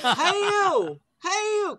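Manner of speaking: high, loud call. Acted. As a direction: shout it across the street. Repeated louder, higher calls.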